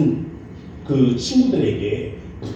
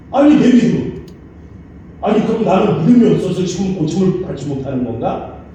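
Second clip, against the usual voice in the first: indignant retort, louder at first; angry; 4 semitones higher, 3 dB louder than usual. Retold or imitated. The student angrily reacting to the healing sermon, indignant. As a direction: bristle at the insult to your faith. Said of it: "화가 나더랍니다".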